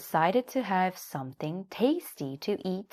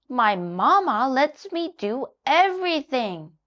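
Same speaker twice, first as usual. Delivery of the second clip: put-on child donkey wheedling; Little Donkey; 8 semitones higher, 5 dB louder than usual. A narrator's reading. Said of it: "he said to Jackie".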